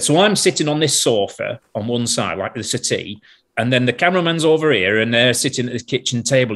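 lightly imitated Lancashire sound man; Lancashire accent. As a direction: slip into a mild Lancashire accent. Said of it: "Hope you can understand my Lancashire accent".

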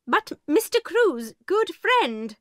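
high, slow protest from the headmistress; headmistress pleading. A narrator's reading. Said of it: "began Miss Minchin".

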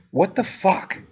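high-pitched incredulous outburst; exasperated disbelief. Retold or imitated. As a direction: let your pitch leap in exasperation. Exasperated at being interrogated an hour.

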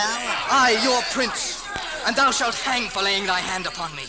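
loud indignant threat; outraged royal fury; furious. Acted. Prince threatening the soldier who struck him, furious.

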